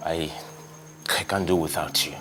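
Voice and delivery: kneeling husband begging his wife not to leave. Acted. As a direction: plead on your knees, broken.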